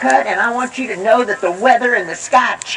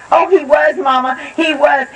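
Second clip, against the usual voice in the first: put-on insisting girl; 4 semitones higher than usual.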